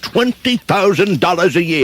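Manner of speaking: stunned at the offer; shocked surprise. Shown as a demonstration. George stunned by Potter's salary offer, high astonished question. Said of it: "Do it like the D Js do".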